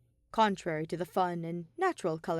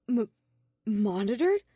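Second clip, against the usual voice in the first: surprised; 3 semitones higher, 5 dB louder than usual. A narrator's reading. Shuichi shocked echo.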